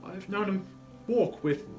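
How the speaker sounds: high, loud, halting start; faltering cheer. Acted. Mother recalls Bob walking, cheerful voice faltering. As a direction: begin brightly and falter mid-phrase. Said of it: "cheerful voice that only faltered once".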